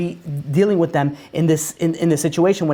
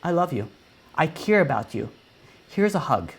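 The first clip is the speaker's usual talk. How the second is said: tender divine voice; 4 dB quieter than usual. Pretend. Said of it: "what God says".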